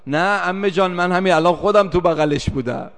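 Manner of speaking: imitating a distressed child insisting; child's insistent protest. Child insists she held her father.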